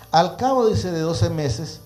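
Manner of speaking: measured, projected Bible reading; preacher reading scripture aloud. Acted. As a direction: read the verse out to a congregation. Reads scripture aloud to listeners.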